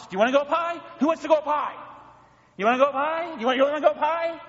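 rising playful tease. Pretend. Preacher acts God teasing church.

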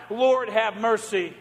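slow, drawn-out plea; crying out. Acted. Church crying out to God ten times, slow plea. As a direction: cry it out slowly as a prayer. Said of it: "ten times we cry out".

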